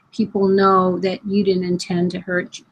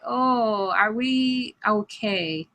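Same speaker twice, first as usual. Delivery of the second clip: worried hush; 2 semitones higher, 5 dB quieter, much slower than usual. Retold or imitated. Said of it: "voicing unsure friends".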